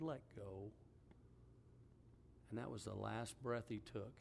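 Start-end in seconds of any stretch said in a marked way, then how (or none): 0.0-0.7 retold whisper. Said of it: "she whispered in his ear".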